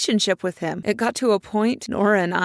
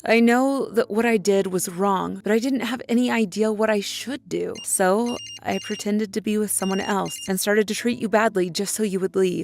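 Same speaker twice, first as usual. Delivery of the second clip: lightly voiced father. A hint of the father apologizing tenderly to Susie. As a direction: read it as a dying man's apology. Reads dead father's letter.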